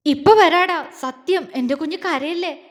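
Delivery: urgent reassurance, loud then easing; flustered. Acted. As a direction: promise hurriedly, then soothe. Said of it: "വെപ്രാളത്തോടെ പറയുന്നതിനോടൊപ്പം".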